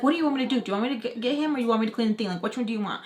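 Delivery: mildly exasperated firing of questions; agitated. Retold or imitated. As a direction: retell a flustered argument. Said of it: "I'm getting agitated".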